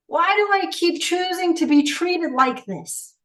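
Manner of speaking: begging herself to understand why; desperate pleading questions. Retold or imitated. Asking herself in despair why she keeps choosing this.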